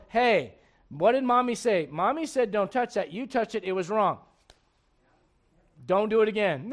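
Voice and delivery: put-on sit the child down and explain calmly; gentle firm correction, no yelling; calm parent correction. Shown as a demonstration. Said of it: "Sit them down and go".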